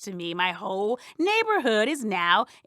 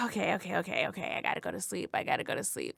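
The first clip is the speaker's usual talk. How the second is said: fading whisper; 5 semitones lower, 9 dB quieter, much faster than usual. Acted. Exhausted self-talk, fading to whisper.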